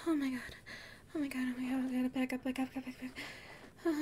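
soft, hurried frightened repeating; hushed panic; panicked muttering. Acted. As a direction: back away from the edge in panic. Panics at edge, backs away.

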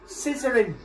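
high, loud yelling at the screen; shouting at the TV. Real, not acted. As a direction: yell it, egging the killer on.

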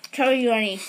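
garbled through packed cheeks; cheeks stuffed full. Real, not acted. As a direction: push the words past a mouthful. Mouth stuffed with marshmallows.

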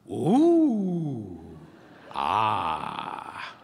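a dreamy ooh then a low, sinking ah; contented ooh-ah. Shown as a demonstration. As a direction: sigh with delight at the fireworks. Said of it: "a contented sigh of appreciation".

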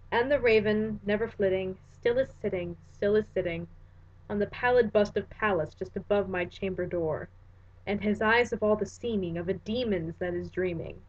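measured, dramatic recitation of verse; solemn verse reading; poem reading. Acted. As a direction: read it like a haunted poet. Reads The Raven aloud.

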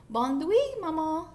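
high, loud little duckling voice; tiny duckling saying goodnight; baby duck. A narrator's reading. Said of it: "said the baby duck".

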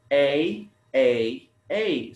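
"A, A, A" as three separate firm "ay" sounds; isolated rhyme sound. Shown as a demonstration. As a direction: pick out the ending "A" three times. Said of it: "the similar sound at the end".

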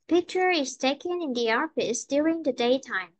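picture, taken, office, daytime said clearly, other words lighter; teacher's model with daytime dropping in pitch; content-word stress, falling end. Shown as a demonstration. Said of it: "mình sẽ đọc rõ bốn cái âm".

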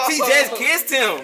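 giggling out the news, slowed; laughing. Real, not acted. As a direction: laugh through the words. Excited gossip, laughing.

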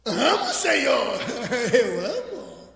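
slow acted reply broken by laughter; laughing acted profession of love; sheepish answer. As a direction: draw out the answer, then chuckle. Peter answers Jesus, laughter heard.

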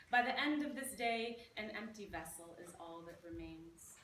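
playful poem read with relish; poetry reading. Acted. Poet reading her silly Nutella poem to the audience, with relish. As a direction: savour each line like a guilty treat.

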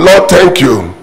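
shouted praise. Acted. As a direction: shout Lord out like a joyful praise. Preacher voices a grateful widow.

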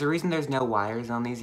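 talking with lip pulled down; showing teeth while speaking; finger pulling lip. Real, not acted. Seen 0: Finger hooks lower lip corner to show teeth, not inside mouth.

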